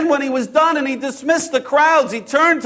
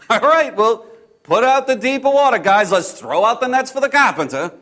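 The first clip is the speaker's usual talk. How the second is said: sarcastic. Retold or imitated. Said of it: "some sarcasm in my voice".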